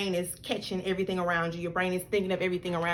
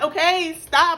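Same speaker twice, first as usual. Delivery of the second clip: firm loud stop; 7 semitones higher, 6 dB louder, slower than usual. Retold or imitated. Telling daughter to stop.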